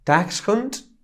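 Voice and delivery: Dachshund said slowly in German; German pronunciation. Shown as a demonstration. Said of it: "wymawia się jako".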